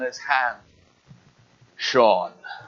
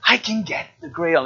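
higher, pleading Elsa voice; greedy Elsa; 6 semitones higher than usual. Retold or imitated. Preacher as Elsa, lightly acted greedy plea. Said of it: "she's like".

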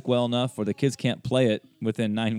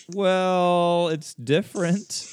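diplomatic hesitation; 8 semitones higher, much slower than usual. Retold or imitated. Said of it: "I was like".

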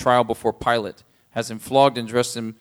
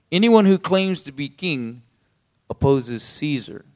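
shouting leaders; 2 semitones higher, 3 dB louder than usual. Acted. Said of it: "kept shouting".

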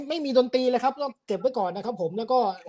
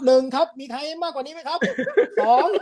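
auctioneer; 7 semitones higher than usual. Pretend. Counting bids like an auction.

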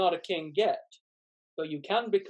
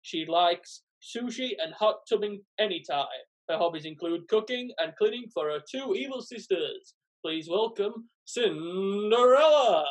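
dating show host presenting contestants; game show host. Acted. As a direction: introduce her like a TV host. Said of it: "acts like a game show host".

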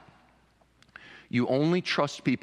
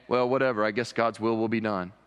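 flippant shrug; 3 semitones lower than usual. Shown as a demonstration. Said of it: "a flippant sort of".

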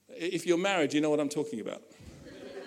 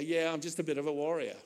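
mock quote; 4 semitones lower, 7 dB quieter, faster than usual. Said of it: "Christians speak to me and say".

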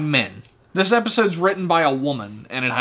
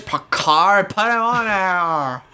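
mock whiny mother; faster than usual. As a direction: parody a mother nagging to let her son aboard. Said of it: "she's just like".

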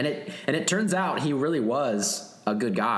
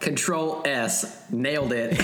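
smug writer; 3 semitones higher, slower than usual. Retold or imitated. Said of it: "Whoever wrote it was like".

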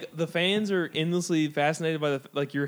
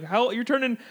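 raised voice, incredulous; mock loud coworker; 7 semitones higher, 6 dB louder than usual. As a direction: shout the coworker's question a bit higher and louder. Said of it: "someone very loudly at work was like".

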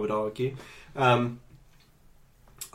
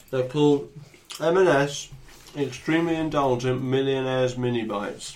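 mock advert; 3 dB louder than usual. Mock ad for snack.

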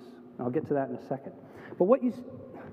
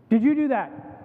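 confronting parent; 4 semitones higher, 5 dB louder than usual. Acted. Parent confronts child caught misbehaving.

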